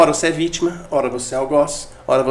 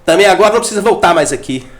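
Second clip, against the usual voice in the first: higher and louder, a hint of a cold mother casting off her son; mock harsh mother; 3 semitones higher, 4 dB louder than usual. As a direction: push him away, lightly hammed-up anger. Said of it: "olha o algoz". (mãe ressentida expulsando o filho, com raiva encenada)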